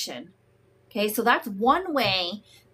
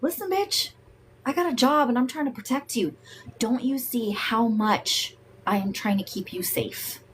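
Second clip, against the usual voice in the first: voice of anger. Pretend. Anger speaking to the person it protects, rushed and insistent. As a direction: play anger as a bodyguard defending itself. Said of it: "your anger is like".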